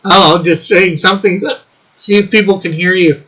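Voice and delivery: hiccuping between words; hiccups. Real, not acted. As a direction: talk through the hiccups. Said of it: "Why are you burping?".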